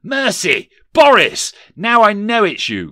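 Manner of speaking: hammed-up terrified wail; frightened cry. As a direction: cry out in fright as you recognise him. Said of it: "cried Scrooge".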